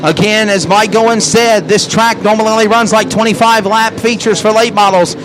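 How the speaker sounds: fast race-call commentary; live play-by-play. Real, not acted.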